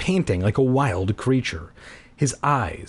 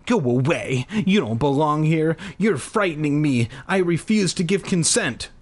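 blurted out; 5 semitones higher than usual. Acted. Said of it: "I blurted out".

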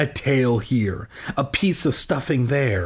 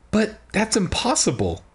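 mother's cry; 7 semitones higher than usual. Acted. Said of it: "Willa's mother cried".

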